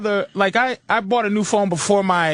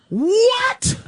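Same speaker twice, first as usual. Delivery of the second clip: mock shock; 13 semitones higher than usual. Reacting to the rep's no-commission news, shocked. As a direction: bark it in shocked disbelief.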